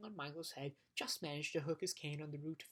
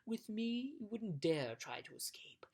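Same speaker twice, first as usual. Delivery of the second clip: hushed, slow threat to the prisoners; menacing whisper; 5 semitones higher, slower than usual. Acted. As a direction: breathe it out like a sly captor.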